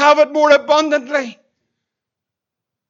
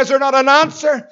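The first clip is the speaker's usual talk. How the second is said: desperate plea, growing higher and louder toward the hurt; crying out; 3 semitones higher, 4 dB louder than usual. Acted. Enslaved Israel begs for an answer, building to an anguished cry. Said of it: "they're crying out every day".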